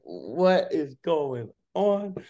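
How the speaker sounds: slow, high, drawn-out disbelief; stunned disbelief. Retold or imitated. Retelling his reaction to Melo's invite, slow stunned disbelief. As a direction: let the shock stretch every word.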